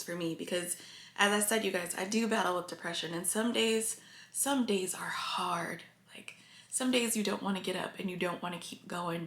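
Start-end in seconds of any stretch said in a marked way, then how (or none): 4.3-5.8 slow, choked real whisper, fighting tears; tearful whisper. Real, not acted. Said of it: "I'm sorry I'm getting emotional". 6.1-9.2 tearful whisper. Real, not acted. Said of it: "I'm sorry I'm getting emotional".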